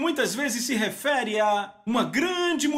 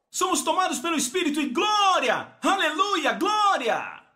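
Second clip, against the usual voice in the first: shouting praise; 9 semitones higher than usual. Acted. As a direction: cry it out in worship. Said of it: "preacher shouting praise".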